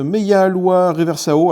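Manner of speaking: foreign name in a clumsy French accent; pitiful foreign accent. Real, not acted. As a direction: slowly sound out the foreign name with a poor accent. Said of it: "excusez-moi pour mon accent pitoyable". (accent étranger pitoyable)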